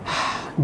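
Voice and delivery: a soft, breathy mock sigh, no voice; the doctor imitates the tired mother's deep sighing breath; imitated patient's sigh. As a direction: let out a heavy demonstrating sigh. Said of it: "deep sighing respiration".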